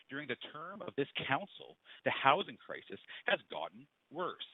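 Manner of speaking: speaking too far from the microphone; faint, far from mic. Real, not acted. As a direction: voice fading in and out, off-mic. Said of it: "Your voice is fading in and out".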